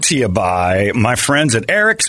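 upbeat radio ad read. Acted. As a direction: sell it like a sponsor spot. Host reads a sponsor ad.

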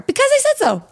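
high laughing mom brush-off; mom lecture, laughing. Retold or imitated. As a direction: laugh through the stock mom answer. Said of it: "Every day".

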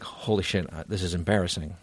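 retold sinking realization, voice dropped; embarrassed inner panic. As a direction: think it aloud, low and embarrassed. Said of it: "I'm fucking starting to sweat".

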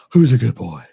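put-on high, excited baby talk to a puppy; talking to a dog. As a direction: gush over a good boy. Playing with dog avatar, baby talk.

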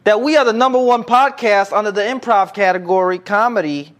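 high, proud announcer voice; grand announcer. Acted. Grand announcement of chart rank.

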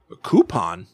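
low-pitched mock character voice; low put-on quote; imitated bystander. Mimics somebody the grandpa questions.

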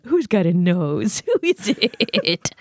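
very slow, cooing pet voice; baby talk to dog. Acted. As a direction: drawl it out to a puppy.

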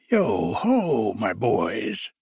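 jovial hail with a falling swoop; hearty, comfortable old master's call; Fezziwig. A narrator's reading. Old master hails his boys, jovial. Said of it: "jovial voice".

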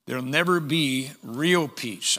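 emphasis on "real"; stress on real. Real, not acted. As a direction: set "real" apart with deliberate weight. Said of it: "I'm emphasizing real or true peace".

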